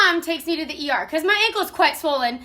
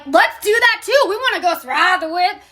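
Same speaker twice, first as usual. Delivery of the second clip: excited retold idea; 4 semitones higher than usual. Friends hatching a dumb plan together, excited. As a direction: act out friends getting carried away. Friends eagerly decide on a stunt.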